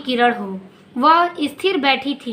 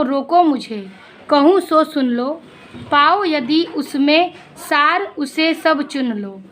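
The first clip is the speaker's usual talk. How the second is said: poem recital. Acted. Reciting the verse.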